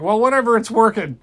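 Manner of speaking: high, very loud gleeful shout; excited shout. Acted. Kid zapping trolls, very loud excited shout. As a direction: cheer it out.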